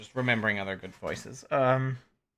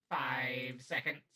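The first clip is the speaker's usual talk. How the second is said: robot voice; 5 dB quieter, slower than usual. Shown as a demonstration. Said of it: "I am now going to be a robot".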